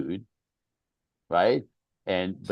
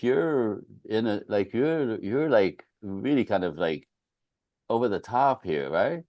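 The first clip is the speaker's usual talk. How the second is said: gently; 3 semitones higher, slower than usual. Retold or imitated. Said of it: "Gently, she said it".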